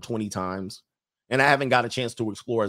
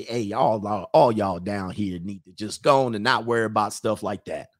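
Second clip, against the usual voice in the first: Southern charm; 2 semitones lower than usual. Shown as a demonstration. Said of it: "That's my Southern charm".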